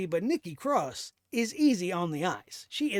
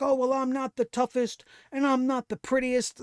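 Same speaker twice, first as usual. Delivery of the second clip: a light, mock-humble voice, a bit higher and louder; mocking meek quote; 4 semitones higher, 4 dB louder than usual. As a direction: parody the "I'm not the prettiest" line as if written for her. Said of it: "writing her to say stupid shit like".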